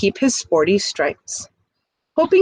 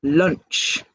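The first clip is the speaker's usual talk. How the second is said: put-on hungry old fish; 5 semitones lower than usual. Fish decides to eat.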